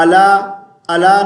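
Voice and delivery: علی said "alaa", with a plain a; wrong ayn. Shown as a demonstration. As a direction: say علی without the throat sound of ayn. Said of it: "علی نہیں".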